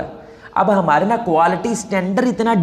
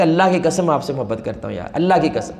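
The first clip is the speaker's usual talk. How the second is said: gentle plea; 5 semitones lower, 3 dB quieter than usual. Retold or imitated. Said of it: "میں نے کہا".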